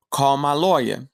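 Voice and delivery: whispered. Retold or imitated. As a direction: call my lawyer, breathed in a whisper. Prisoner repeats demand, whispered.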